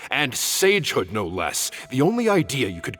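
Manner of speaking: a sharp, sarcastic dressing-down, pitch jumping on the questions; riled-up scolding. Acted. Master chewing out his reckless colleague, riled-up scolding. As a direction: chew him out like a stern old teacher. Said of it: "Master get this riled up".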